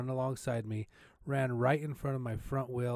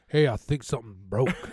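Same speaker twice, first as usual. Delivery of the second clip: booming, very loud, very manly, macho delivery; 9 dB louder than usual. Recounting an injury to the person who helped, quoting own words in a very manly voice. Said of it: "very manly is the way I said it".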